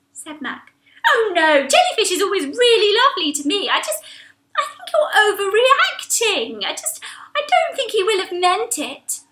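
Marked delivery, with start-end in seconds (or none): 1.1-9.2 high, bright friend's voice; Angel the friend. Acted. Angel asks Mac about the jellyfish, puzzled and high. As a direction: sound puzzled and sweet.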